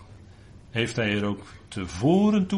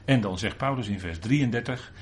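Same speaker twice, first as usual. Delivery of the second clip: normal talking voice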